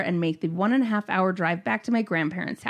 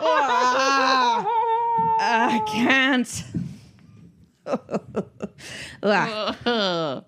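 too overcome with laughing to read on; helpless laughter; 3 semitones higher, much slower than usual. Real, not acted. Reader overcome by the poop description, laughing helplessly.

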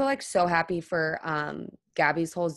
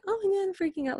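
mock freak-out; 14 semitones higher, 3 dB quieter, faster than usual. Fan imagining meltdown in front of Miley, mock freak-out. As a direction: squeal it like an overwhelmed fan. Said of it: "you can't just spend your moment with Miley just going".

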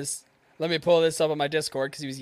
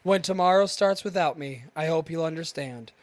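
dramatic poem reading. Acted. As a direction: read it like dark teenage verse. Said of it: "read a poem by a dead man".

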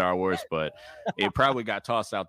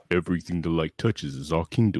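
Mufasa voice. Shown as a demonstration. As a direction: pull it out the chest, regal. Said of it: "you can do the".

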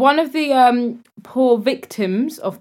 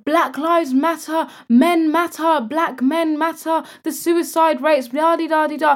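preachy mock rant; 6 semitones higher than usual. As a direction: mimic a self-righteous rant. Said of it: "these same people will scream".

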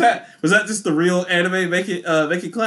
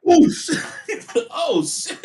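a high, laughing "Oh, shit"; surprised laughing oh shit; 11 semitones higher, slower than usual. Retold or imitated. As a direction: react startled, laughing. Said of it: "Toto was like".

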